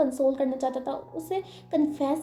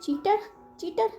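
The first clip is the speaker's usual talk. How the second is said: angry heartbroken rant. Acted. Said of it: "ऐसे वो बोलने लग जाता है".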